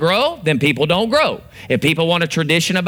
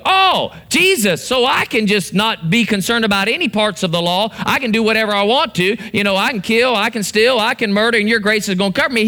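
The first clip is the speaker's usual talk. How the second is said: mock careless, higher voice; careless sinner; 5 semitones higher than usual. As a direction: play the one who thinks grace covers anything. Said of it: "he didn't go".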